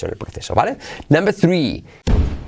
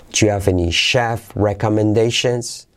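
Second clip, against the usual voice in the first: slower model; 3 semitones lower than usual. Shown as a demonstration. Slower build-up of phrase.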